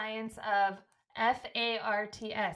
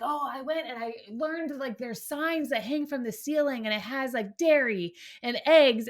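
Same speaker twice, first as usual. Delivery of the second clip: excited child, retold; 3 semitones higher, 5 dB louder than usual. Mom quoting her son about his school shopping trip, mildly excited. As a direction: retell it like an eager little boy. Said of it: "He was so excited".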